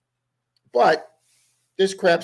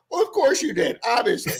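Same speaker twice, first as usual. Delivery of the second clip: sarcastic; 8 semitones higher than usual. Retold or imitated. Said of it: "I go".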